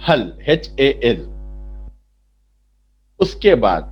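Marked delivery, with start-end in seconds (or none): 0.1-1.2 हल said slowly, then spelled letter by letter. Shown as a demonstration. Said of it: "हल का pronunciation क्या है?". (धीरे-धीरे अक्षर बोलकर)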